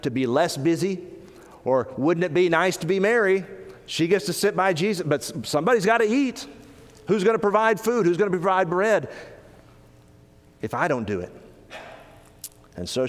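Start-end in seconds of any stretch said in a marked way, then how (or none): 1.6-11.3 Martha's complaint. Acted. Voicing Martha's resentful complaint.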